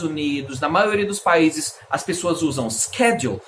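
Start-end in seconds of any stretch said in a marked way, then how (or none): 2.7-3.4 schedule with a hard SK start; preferred pronunciation. Shown as a demonstration. Teacher giving the preferred form, schedule as SKED-jool. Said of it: "preferência a essa pronúncia".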